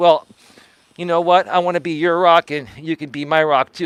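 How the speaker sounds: ordinary delivery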